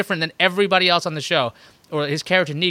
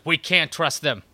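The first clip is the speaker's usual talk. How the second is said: previously on recap; slower than usual. Pretend. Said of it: "forgot to mention in the previously".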